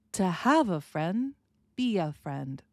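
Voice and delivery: slow, rise on "to have a friend", fall on "be a friend", linked and reduced; all together. Shown as a demonstration. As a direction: combine every step in one line. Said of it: "So now we put all these together".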